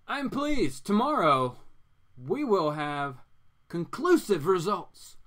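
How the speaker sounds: seductive villainess. Acted. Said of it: "our awesome Poison Ivy here says".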